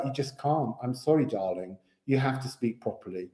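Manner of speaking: a hint of a haughty old teacher; posh teacher. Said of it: "She's like".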